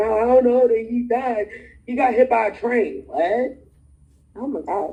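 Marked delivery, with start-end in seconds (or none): 0.0-3.0 mock sobbing through the words, tearful voice. Retelling a phone call where the daughter cried, imitating her crying. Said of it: "my daughter crying like".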